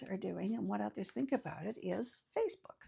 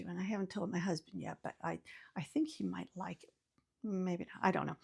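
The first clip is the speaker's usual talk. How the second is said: hushed whisper, sharing a secret; confiding in the viewer in a whisper; conspiratorial whisper; 3 semitones lower, 5 dB quieter, faster than usual. Real, not acted. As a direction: whisper it so the husband won't hear. Secret kept from her husband.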